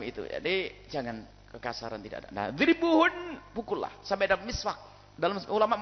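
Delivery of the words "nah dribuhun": high, slow drawn-out dribuhun; slow emphatic. Acted. Preacher stressing the Quran word to the congregation. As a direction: stretch out dribuhun slowly.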